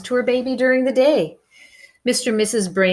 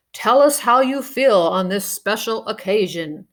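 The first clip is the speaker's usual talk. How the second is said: a hint of a crackly radio call. Ground control radioing the baby in space, over the radio. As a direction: speak it like a transmission from ground control.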